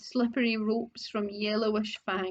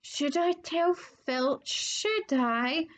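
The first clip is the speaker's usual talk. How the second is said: slow, falsely innocent and sweet; butter-wouldn't-melt innocence; saintly voice; 5 semitones higher, much slower than usual. Acted. Peeves feigns innocence to the students, slow and sweet. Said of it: "in a saintly voice".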